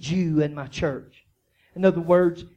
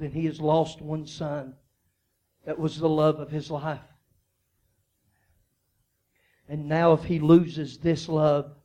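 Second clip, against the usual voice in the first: put-on low, soft, grieving plea for the old father; quiet pleading; 7 semitones lower, 4 dB quieter than usual. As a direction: beg softly, as if into the ruler's ear. Judah pleads privately with Pharaoh.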